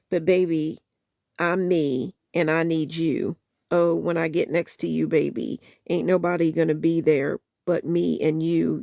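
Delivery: soulful spoken-word recital of a love song; spoken-word lyric reading. Acted. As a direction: read the song words with feeling, half-performed. Reads song lyrics aloud.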